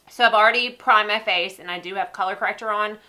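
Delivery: stuffy, nasal sinus voice. Real, not acted. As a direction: speak through a blocked, nasal nose. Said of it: "I'm sorry about my nasally voice".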